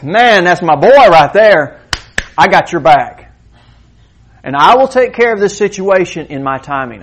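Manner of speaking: a fond father beaming over his son; proud God. Retold or imitated. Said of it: "He says".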